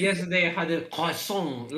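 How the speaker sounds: croissant in exaggerated French within English; over-French croissant. Shown as a demonstration. Joking it would be ridiculous, over-French croissant. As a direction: make croissant showily French mid-sentence. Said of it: "it would be ridiculous to go like that".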